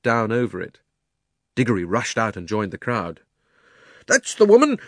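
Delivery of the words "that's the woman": high, loud outraged cry stressing woman; angry shout. Acted. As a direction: yell it, pointing her out to the crowd. Angry shopkeeper accuses the witch.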